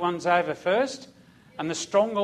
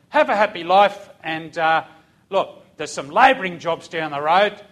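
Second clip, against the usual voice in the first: louder sarcastic sergeant; mock farewell; 5 dB louder than usual. Sergeant mockingly dismisses failed recruits, louder. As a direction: send them off with mock kindness.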